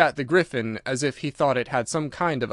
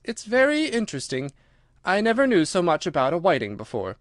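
put-on higher girl's voice, polite interest; Alice, interested; 5 semitones higher than usual. Alice thanks the Gryphon, politely interested. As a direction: lift the pitch with mild wonder.

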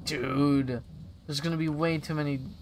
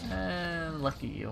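slow, drawn-out sarcasm; sarcastic; 3 semitones higher, 4 dB quieter, slower than usual. Acted. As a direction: stretch it out with mild sarcasm. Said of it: "I detect sarcasm".

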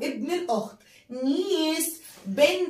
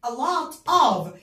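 a lot of said slowly and a touch louder; slow model phrase; 3 dB louder, much slower than usual. Shown as a demonstration. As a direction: spell out the phrase slowly for pupils. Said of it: "كثيرًا من".

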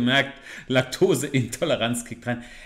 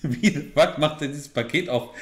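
laughing. Real, not acted. Laughing at the video.

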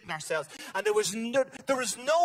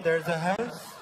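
magician patter. Retold or imitated. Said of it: "David Copperfield ... just going".

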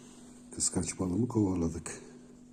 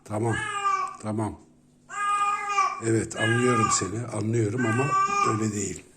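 mock whimper; 3 semitones higher, 6 dB louder, faster than usual. Placating the jealous pet.

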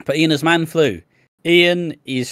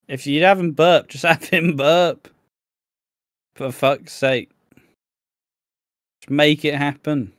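raised-pitch, laughing exasperation; exasperated; 3 semitones higher than usual. Real, not acted. Viewer complaining to EastEnders about the burp, exasperated. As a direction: plead in amused disbelief. Exasperated rant at the show's writers.

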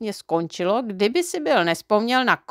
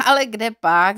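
light chuckle into a louder amused reply; laughing; 4 dB louder than usual. Acted. The driver laughs at Neználek's naive question about sun-built houses. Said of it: "zasmál se řidič".

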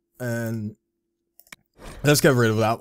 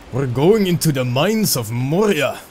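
put-on failed Scottish accent; 4 dB louder than usual. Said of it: "sorry for the failed Scottish accent".

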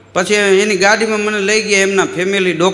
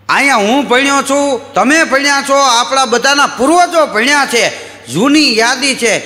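mock speech; 5 semitones higher than usual. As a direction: sell the excuse like a stump speech. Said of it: "તો નિશાળે જઈને કે". (ગામલોકો સામે ભાષણ કરતો સરપંચ, ઊંચા અવાજે)

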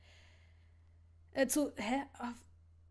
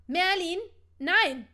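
shocked outcry; 6 semitones higher, 11 dB louder, slower than usual. Acted. Hermine stops her own thought.

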